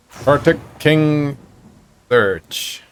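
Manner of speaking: a hint of an old lizard searching for words; old kobold voice. Old kobold asks the party for help, slow creature voice. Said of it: "the old kobold says".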